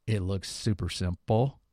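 dry, slow sarcastic drawl. Real, not acted. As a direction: say it with a sarcastic edge. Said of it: "And I'm being sarcastic there".

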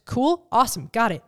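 cheerful, no-fuss okay; breezy upbeat. Retold or imitated. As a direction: brush it off brightly. Breezy acceptance of rescheduling.

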